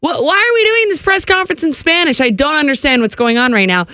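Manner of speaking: high, amazed disbelief; baffled and delighted; surprised. Retold or imitated. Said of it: "I was like".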